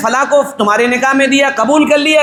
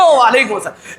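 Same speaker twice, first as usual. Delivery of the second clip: mock slogan reply; 3 semitones lower than usual. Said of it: "ایسے نعرے لگتے ہیں".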